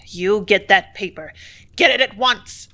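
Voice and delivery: ugly angry command; ugliest tone. A narrator's reading. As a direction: bark the command nastily. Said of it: "in his very ugliest tone".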